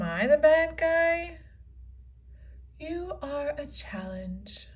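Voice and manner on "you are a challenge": breathless whispered aside. Acted. Unicorn murmuring about Phoebe, whispered. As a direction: whisper it so nobody hears.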